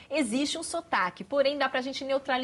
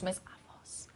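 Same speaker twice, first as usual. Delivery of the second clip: breathy, voiceless, much softer; voz sumindo, quase sem som; losing the voice; 4 semitones lower, 10 dB quieter, faster than usual. Shown as a demonstration. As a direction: speak as if the voice is gone. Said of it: "Começa a falar desse jeito".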